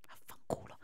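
breathed curse under the breath; whispered curse. Real, not acted. Gamer curses the game in a whisper. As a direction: hiss it almost silently.

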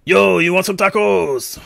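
put-on slow, drawn-out Hispanic accent; laid-back Hispanic street vendor accent. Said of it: "doing a Hispanic accent".

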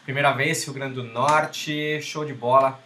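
a weak, hammed-up Rio accent; fake carioca accent. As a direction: try on a Rio de Janeiro accent. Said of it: "Sotaque de carioca mais fake".

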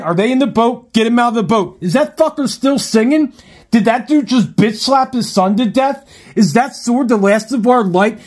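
high, loud, rapid-fire confused questions; frantic barrage of bewildered questions, half joking; panicked inner monologue. Pretend. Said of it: "I actually taped my inner dialogue".

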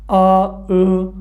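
آ، او، drawn out slowly, each vowel held clearly; vowel demo. Shown as a demonstration. Teacher sounding out Turkish vowels for students, slow and clear. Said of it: "حرف صدادار آخرین هجای کلمه".

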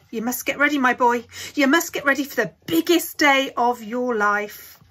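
put-on loud, high, eager old man rattling off orders; excited urging. A narrator's reading. Grandpa Joe rushing Charlie to get ready, loud and high. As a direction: hurry him along with loud glee.

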